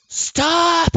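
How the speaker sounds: high, loud yell of stop; shouted stop. Retold or imitated. Pleading with people pulling the trigger, shouted stop. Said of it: "and I'm like".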